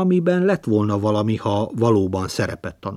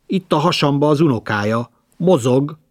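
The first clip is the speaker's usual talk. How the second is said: higher and louder stagey reveal; dramatic announcement; 5 semitones higher, 5 dB louder than usual. Acted. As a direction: announce it with theatrical flourish. Mother dramatically revealing pregnancy.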